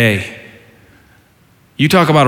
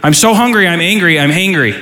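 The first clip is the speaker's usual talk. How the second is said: mock hangry complaint; 2 semitones higher than usual. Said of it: "If you don't know what hangry means".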